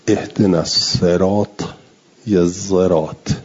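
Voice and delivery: الصراط with the ص shaded toward ز, زرات; sad toward z. Shown as a demonstration. Teacher demonstrating the sad-z blend in الصراط. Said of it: "یه جوری صراط رو تلفظ کنید که بین صاد و ز".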